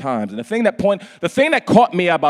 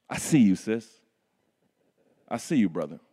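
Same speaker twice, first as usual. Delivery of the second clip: soft and lower, tender; 7 semitones lower, 6 dB quieter than usual. Acted. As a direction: speak gently to each one. Tender address.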